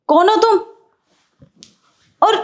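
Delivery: high, loud startled question. Acted. Wife startled by a stranger in her home. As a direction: demand it, caught off guard.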